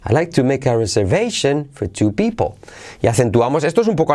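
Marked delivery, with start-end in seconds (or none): 0.1-2.5 peaks on "reservation" and "people", then falling; accent "reservation" and "people" like a yes; affirmative intonation. Shown as a demonstration. Teacher showing statement melody, affirmative intonation. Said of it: "punto álgido con yes".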